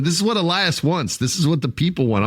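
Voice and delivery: lightly voiced wrestling promo; a hint of Triple H addressing the crowd; Triple H impression. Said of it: "I'm like Triple H".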